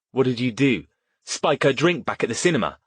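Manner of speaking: accusing. Acted. Accusing the attacker.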